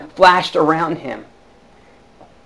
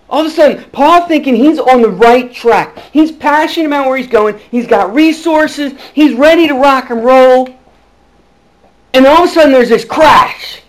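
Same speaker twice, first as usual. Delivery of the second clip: higher and louder, stretched out toward the crash; building excitement; 5 semitones higher, 4 dB louder than usual. Real, not acted. Preacher to his congregation, telling Saul's story: rising excited buildup.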